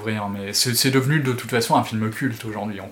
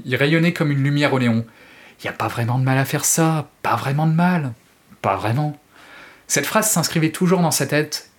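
dramatic audiobook reading; expressive French audiobook narration; story narration; 2 semitones higher, 3 dB louder than usual. A narrator's reading. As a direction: read the novel like a storyteller. Reads Stephen King excerpt aloud.

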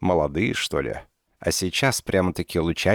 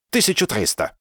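firm; 8 semitones higher than usual. A narrator's reading. Professor firmly repeats his price to Dinka. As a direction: state it with no give. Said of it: "решительно ответил ей Зильберман".

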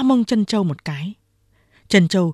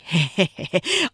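character's short sly chuckle. A narrator's reading. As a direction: chuckle as if caught out. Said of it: "Hai hổ cười".

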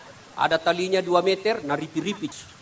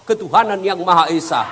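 laughing blurted answer; 4 dB louder than usual. Acted. Dead man blurts Pancasila answer.

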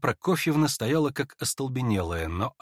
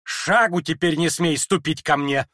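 slow, louder furious command; angry order; 4 semitones higher, 4 dB louder than usual. Acted. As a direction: bar him from her door, seething. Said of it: "побледнев от гнева".

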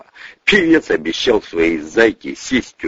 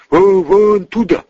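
urgent stammer; 11 semitones higher, 5 dB louder than usual. Acted. Soldier points, stammering urgently.

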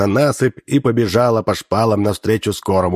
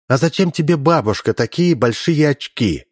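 bright questioning schoolgirl voice; naive girl voice; 5 semitones higher than usual. Acted. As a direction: ask innocently, pitched up. Girl questions disguised saboteur.

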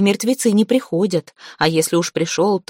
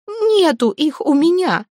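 terrified plea; 10 semitones higher than usual. Acted. Zateya begs the dead Veres, teeth chattering with fear.

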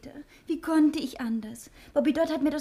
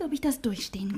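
whispered, doubting herself; anxious whisper, near despair; fearful whisper; 4 semitones lower than usual. Acted. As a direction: breathe out the fear.

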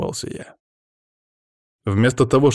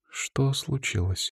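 soft, slow worried question; hushed slow question; quiet question; 6 semitones higher, 7 dB quieter, slower than usual. A narrator's reading. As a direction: ask it softly and slowly. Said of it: "тихо спросила мышка".

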